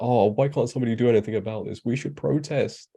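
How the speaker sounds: hammed-up whiny protest; mock whiny complaint. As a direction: whinge like a hypocrite. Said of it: "They'll be like".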